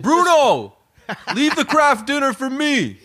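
high, whiny holler at the cat; mock scolding. Acted yelling at the cat.

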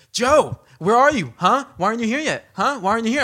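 mock impatient demands. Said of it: "And he goes".

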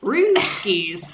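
playful Aussie slang in a put-on twang; mock Australian accent. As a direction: lightly imitate an Australian. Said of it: "He's Australian".

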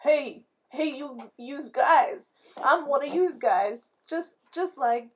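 bluffing infiltrator. Acted. Acts bluffing as one of the guards.

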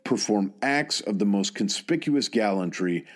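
measured military history narration; scripted narration. Real, not acted. Narrator telling listeners of a soldier's service, measured scripted narration. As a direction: narrate in steady, deliberate phrases with set pauses.

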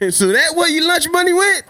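hammed-up parent scold. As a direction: demand an answer like a fed-up father. Parent scolding kid in skit.

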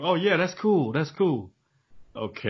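mock half-interested host, tailing down; feigned interest. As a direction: fake a polite reaction that fades away. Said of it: "That's another one".

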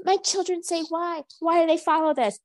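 high mock Spanish accent; Hilaria. Mother complaining about being followed with her children, high mock Spanish accent. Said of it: "With her offensive Spanish accent".

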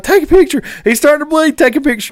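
high hurried pleas; urgent request. Retold or imitated. Angler urging his buddy to snap a photo, high urgent. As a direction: rush him, fish is bleeding. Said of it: "I'm like".

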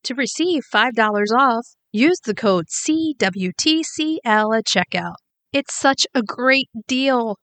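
upbeat sponsor read for listeners. Acted. Host reading a sponsor ad to listeners, upbeat ad read. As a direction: sell the deal to listeners.

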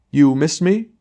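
high, loud quavering stage cry; a dreadful hammy tremble; theatrical tremor. Acted. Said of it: "throwing a dreadful theatrical tremor into his voice".

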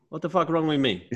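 hammed-up offended retort; indignant old farmer. Old farmer answering the neighbour, mock indignant.

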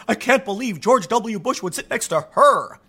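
slow, put-on scandalized voice; hammed-up incredulous outrage; mock disbelief. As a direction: imitate an appalled complainer, stretching the words. Mimics imagined conservatives being scandalized.

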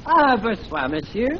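put-on phony French accent greeting; courteous put-on French accent. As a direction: greet politely in stage French. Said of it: "talking like this with a French accent".

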